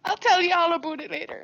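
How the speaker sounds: light Canadian accent on about, said a boot. Shown as a demonstration. Showing the Canadian accent, light and playful. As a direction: drop into a hint of Canadian, a boot. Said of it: "What was that word?".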